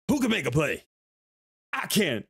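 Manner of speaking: light imitation of a hyped player; T.O. call and response. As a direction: call out, then answer yourself. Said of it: "on the sideline going".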